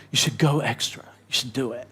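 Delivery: the gentle prompting of God, softly. Retold or imitated. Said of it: "God just kinda kept saying".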